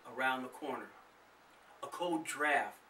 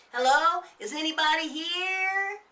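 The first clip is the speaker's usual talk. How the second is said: higher, louder call into the house; 9 dB louder than usual. A narrator's reading. Nathan calling into the empty house, loud. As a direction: call into the dark hallway. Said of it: "Nathan asked".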